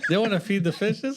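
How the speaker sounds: put-on laughing copy of a Gotham accent; mimicked Gotham accent. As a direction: echo the Gotham accent, amused. Echoing friend's put-on accent, laughing.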